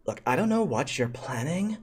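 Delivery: lightly voiced bossy teen girl; rising, drawn-out teen queen delivery; haughty prom-queen schoolgirl.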